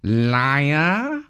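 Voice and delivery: lightly voiced cat purr. A narrator's reading. Cat answers Luna with a mild purr. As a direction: purr it back. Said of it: "he purred back".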